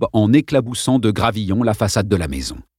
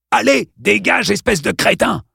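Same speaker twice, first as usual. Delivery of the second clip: mustache twirling villain; 11 semitones higher than usual. Acted. Congdon, thug threatening Dale.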